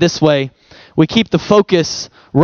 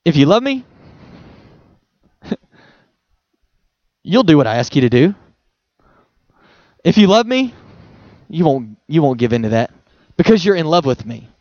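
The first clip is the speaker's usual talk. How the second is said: gentle Jesus voice; 5 semitones lower than usual. Shown as a demonstration. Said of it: "I think he would say it this way".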